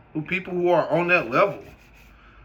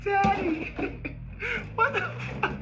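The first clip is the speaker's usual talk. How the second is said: mock high whiny shout; 4 dB quieter than usual. Young self yelling at his elder about devils, in a high wail. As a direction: wail like a scared child calling his dad. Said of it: "I was like".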